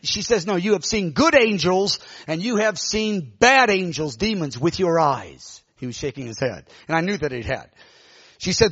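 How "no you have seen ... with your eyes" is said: slow, measured prophetic cadence; lightly imitated prophetess weighing each phrase; prophesying woman. Woman telling Augustine what he has seen, solemn prophecy. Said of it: "started prophesying".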